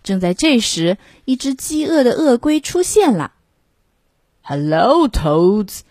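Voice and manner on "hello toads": lightly voiced turtle menace; a hint of a snappish greeting; mildly snapping turtle voice. A narrator's reading. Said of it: "snapped the snapper".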